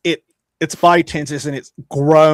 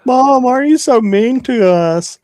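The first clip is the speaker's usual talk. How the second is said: put-on higher, louder whiny kid plea; mock childish whine; 11 semitones higher, 6 dB louder than usual. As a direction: whine at mom like a sulky child. Playing whiny puppies to mom.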